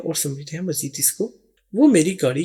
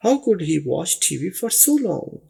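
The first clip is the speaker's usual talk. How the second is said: slow dictation; much slower than usual. Shown as a demonstration. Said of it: "model sentence".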